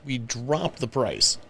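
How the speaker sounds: ordinary talk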